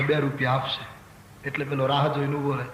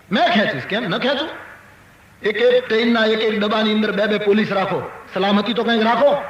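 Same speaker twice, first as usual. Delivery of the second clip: raised, mildly angry scolding; acted-out telling-off, higher in pitch; threatening rebuke; 4 semitones higher, 3 dB louder than usual. Grandfather demanding police guards from the official, scolding. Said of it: "ધમકાવા લાગ્યો અધિકારી".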